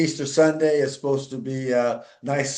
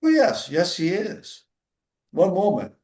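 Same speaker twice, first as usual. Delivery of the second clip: higher, bright phone-desk voice; eager receptionist; 5 semitones higher than usual. Retold or imitated. Young lady at the foundation answering Dan on the phone, eager and higher. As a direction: play the chirpy young lady taking the call.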